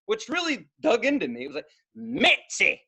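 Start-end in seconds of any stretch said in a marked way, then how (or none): 1.9-2.8 a light Southern twang on "Mitzi", called out; mild Southern drawl calling "Mitzi!". Retold or imitated. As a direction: sing out "Mitzi!" like a Southern neighbor. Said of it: "It was a Southern twang".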